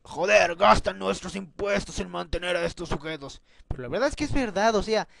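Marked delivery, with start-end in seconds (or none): 0.0-3.4 lightly acted grumble in a put-on voice; mock taxpayer complaint. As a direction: lightly imitate someone griping about wasted taxes. Voicing a series character's tax complaint.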